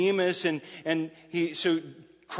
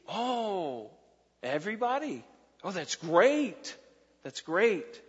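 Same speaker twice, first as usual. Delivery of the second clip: naive delight; slower than usual. Retold or imitated. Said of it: "they're gonna see".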